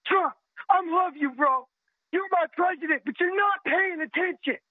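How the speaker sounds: pleading with the president, tears rising; choked up. Real, not acted. Veteran caller begging Trump, voice breaking with tears. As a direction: voice catching on a cry.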